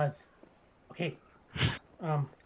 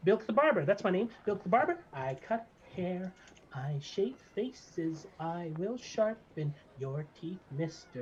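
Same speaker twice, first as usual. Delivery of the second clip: higher, nervous then proud little barber; gnome barber; 4 semitones higher, 3 dB louder than usual. Acted. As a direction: fret about danger, then boast your name. GM voices the barber.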